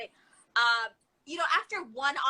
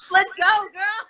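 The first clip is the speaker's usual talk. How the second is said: excited; 8 semitones higher, 12 dB louder, slower than usual. Retold or imitated. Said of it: "Man, you're like".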